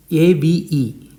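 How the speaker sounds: "Ave" as AH-vay; Italian A pronunciation. Shown as a demonstration. Teacher giving an example of Italian A, "Ave" as AH-vay. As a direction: open ah at the start of "Ave". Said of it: "is A in Italian".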